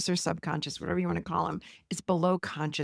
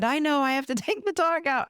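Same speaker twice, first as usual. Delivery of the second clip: higher-pitched, lightly voiced teenage boy; teen's reply retold in a raised voice; 6 semitones higher than usual. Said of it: "he said".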